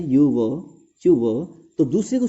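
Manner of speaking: यू व with silent r, ending on va; teacher repeating यू व without the r; correct pronunciation. Shown as a demonstration. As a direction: model यू व again, no r sound. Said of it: "तो उच्चारण इसका यू व".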